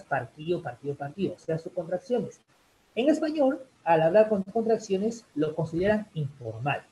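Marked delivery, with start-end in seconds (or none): 0.0-1.3 "partido" as par-TÍ-o, with no second d; dropped d. Shown as a demonstration. Teacher showing how the singers say it, "partido" contracted to partío. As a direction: repeat "partido" with the d swallowed, partío. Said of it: "ellos dicen más partido".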